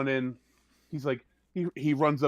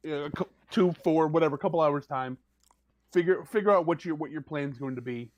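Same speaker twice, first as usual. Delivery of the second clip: dismissive NPC. Acted. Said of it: "she goes".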